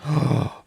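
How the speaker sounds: sharp gasp of realisation; shocked gasp. Acted. Heroine realising her mistake, shocked gasp. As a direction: gasp in alarm.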